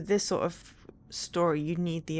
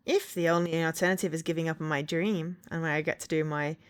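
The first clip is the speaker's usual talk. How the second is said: villain voice. Pretend. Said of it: "this is my villain voice".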